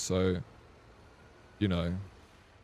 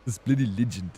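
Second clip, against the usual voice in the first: louder mock British accent, punching "bloody"; 4 dB louder than usual. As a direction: ham up a British bloke on "bloody". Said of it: "It's Inception accent".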